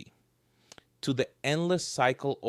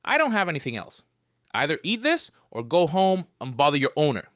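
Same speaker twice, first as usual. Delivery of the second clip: playful scolding; 4 semitones higher, 5 dB louder than usual. Acted. Scolding the cat.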